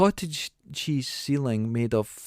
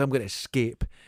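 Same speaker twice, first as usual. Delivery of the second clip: ordinary talk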